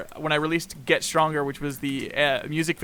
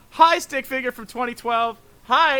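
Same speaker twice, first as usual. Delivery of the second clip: higher, sing-song hello to a drawing; mock greeting; 9 semitones higher, 7 dB louder than usual. Greeting his old stick figures, a cheery higher hello. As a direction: greet an old doodle like an old friend. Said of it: "I'm like".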